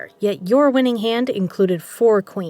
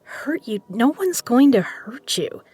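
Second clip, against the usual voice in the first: ordinary talk, nothing marked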